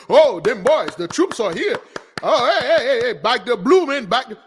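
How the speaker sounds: high, excited imitation of fans; mock cheering. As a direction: hail them in mock excitement. Mimics cheering crowd hailing troops.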